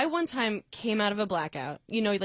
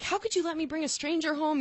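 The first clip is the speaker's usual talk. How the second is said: retold complaint; 8 semitones higher than usual. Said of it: "I'm saying to my friends".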